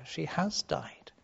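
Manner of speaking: slow, voiceless whisper. Real, not acted. Preacher telling of Jairus' dead girl, slow whisper. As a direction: breathe the words out slowly. Father sees his dead daughter.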